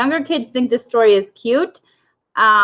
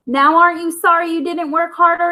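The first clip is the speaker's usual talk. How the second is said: higher, lightly voiced gloating hen; smug cluck; 6 semitones higher than usual. Aunt hen gloating at Henrietta, a lightly voiced high cluck. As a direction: tease her like a smug old hen. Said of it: "Aunt Emily clucked".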